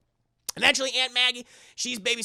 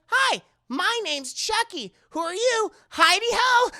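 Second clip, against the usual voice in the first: very high, loud put-on talking-doll voice; chirpy sinister doll, pitched way up; creepy doll voice; 13 semitones higher, 7 dB louder than usual. Chucky introduces himself to Andy in a very high, loud doll voice.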